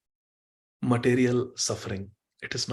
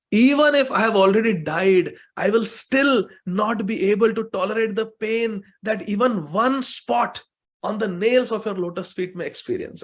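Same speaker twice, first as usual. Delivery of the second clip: higher, louder lovesick plea; Radha pleading; 5 semitones higher, 4 dB louder than usual. Acted. Radha begging Krishna to appear, impassioned plea. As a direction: pour out devotion, pleading. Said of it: "She's saying".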